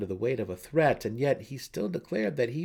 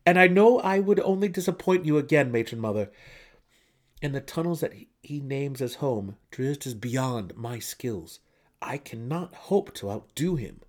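higher, tense pleading son; anxious young son; 5 semitones higher, 6 dB louder than usual. A narrator's reading. Son pleading with his matron mother. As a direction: plead your case desperately.

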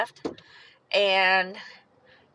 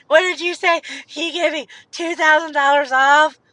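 stunned disbelief; 6 semitones higher, 6 dB louder than usual. Retold or imitated. Stunned at the discount news.

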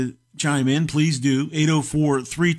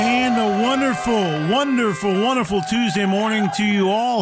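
excited; 6 semitones higher than usual. Real, not acted. Host's big on-air greeting.

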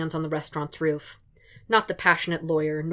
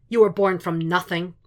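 louder, booming contempt; booming Fisk; 5 dB louder than usual. Acted. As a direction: let it boom around the gym. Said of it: "Fisk's voice booms".

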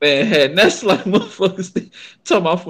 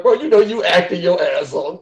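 laughing. Retold or imitated. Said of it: "I was like".

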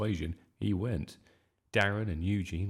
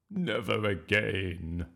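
slow, emphatic vow; 4 dB louder, slower than usual. A narrator's reading. Miss Skinner after the ruined play, emphatic vow. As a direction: draw out each word with grim resolve. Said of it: "vowed Miss Skinner".

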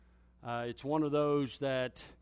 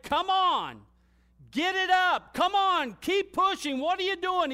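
much higher, loud coaching yell; imitating trainer yelling; 13 semitones higher, 7 dB louder than usual. Trainer yelling at lifter under the bench, loud coaching yell. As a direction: bellow at him to push the bar up. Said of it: "and he's yelling at me".

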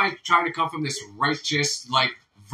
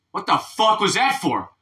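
higher, slowed-down mock outrage; acted indignation; 5 semitones higher than usual. Punched Chinese guy in a joke asks why, mock indignant. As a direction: stretch out an indignant protest.

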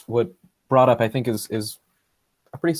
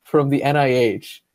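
incredulous, rising; 5 semitones higher, 4 dB louder, slower than usual. Retold or imitated. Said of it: "I was just like".

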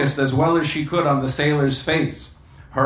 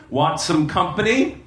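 purring; 3 semitones higher than usual. Acted. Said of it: "she purred".

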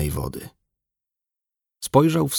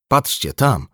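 higher-pitched urgent call; 7 semitones higher, slower than usual. A narrator's reading. Brother alerts the crew to something at sea, calling out. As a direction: call their attention to something out there. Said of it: "zawołał brat".

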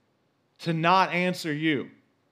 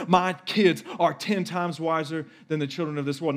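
building confident prayer, faster toward the end; bold declaring prayer. Pretend. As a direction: proclaim it with rising faith. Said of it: "I can pray like".

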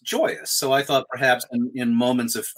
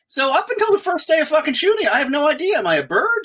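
higher-pitched, worked-up confusion; comic bewilderment; 12 semitones higher, 4 dB louder than usual. Retold or imitated. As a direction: build a mock identity crisis. Acts out his mounting confusion.

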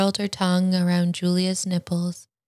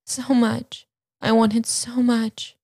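higher, airy and breathless; breathy; 6 semitones higher than usual. A narrator's reading. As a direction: breathe the words out, pleading. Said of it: "Lana breathed".

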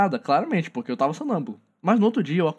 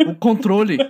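retold shouting; 3 semitones higher, 5 dB louder than usual.

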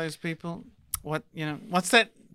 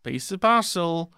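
Liverpool voice in a famous musician's style, higher at the end; mock villain; 3 semitones higher, 4 dB louder than usual. Joking as the Ripper in a silly Liverpool voice. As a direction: play a cartoonish killer announcing himself. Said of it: "I'm being Ringo Starr".

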